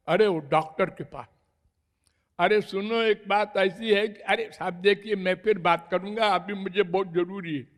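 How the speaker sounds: rushed reply tossed out in passing; hurried brush-off. Acted. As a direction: brush someone off in a hurry. Acts out man rushing to doctor.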